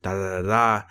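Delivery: half-hearted imitation of spoken-word verse; mock poet recital. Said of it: "she was trying to be, like, a poet".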